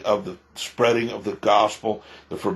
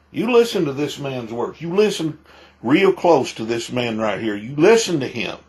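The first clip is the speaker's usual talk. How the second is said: emphatic warning; 3 semitones higher than usual. Real, not acted. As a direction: drive it home like a street preacher. Warning viewers, preacher-style.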